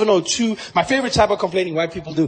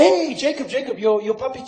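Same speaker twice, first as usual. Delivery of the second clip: higher-pitched alarmed call to the owner; complaining neighbours; 4 semitones higher than usual. Acted. The public tells Zuma about his puppy's mess, high mock complaint. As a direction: pipe up to report a naughty puppy. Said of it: "And we were like".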